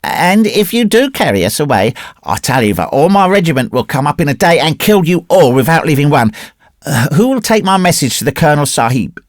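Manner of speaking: put-on high-pitched, determined child; firm little boy. A narrator's reading. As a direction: stand firm as a small boy warning grown men. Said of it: "but he went on firmly".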